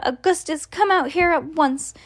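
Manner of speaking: high, insistent call; Missus Gloop yelling. A narrator's reading. Missus Gloop calling her son out, high restrained yell. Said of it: "yelled Missus Gloop".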